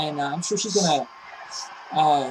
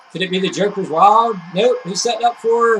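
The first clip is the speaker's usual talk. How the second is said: excited; 2 semitones higher, 6 dB louder than usual. Real, not acted. Building hype on a move.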